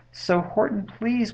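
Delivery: high, imploring little voice; storybook plea reaching upward; pleading. A narrator's reading. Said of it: "pleaded that voice of the mayor".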